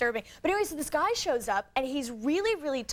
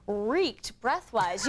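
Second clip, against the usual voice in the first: slow drawn out; 3 semitones lower, much slower than usual. Retold or imitated. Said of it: "walk away and go".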